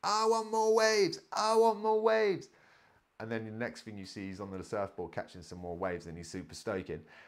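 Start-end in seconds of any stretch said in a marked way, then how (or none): 0.0-2.5 put-on very high, shrill, drawn-out screaming child's voice. Describing a surf clip of a kid: imitating a kid screaming. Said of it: "he's just screaming".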